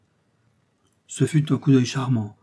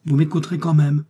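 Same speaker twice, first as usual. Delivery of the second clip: raised, louder burst of anger; enraged; 5 semitones higher, 6 dB louder than usual. A narrator's reading. Flore stops Miss Eden's horse and demands a hearing, enraged. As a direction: insist furiously, pitch and volume up. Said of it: "dit-elle rageusement".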